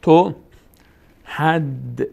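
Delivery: "تو", long pause, then "حد"; syllable-by-syllable. Shown as a demonstration. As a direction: close "حد" firmly on the d. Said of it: "ه میچسبه به دال".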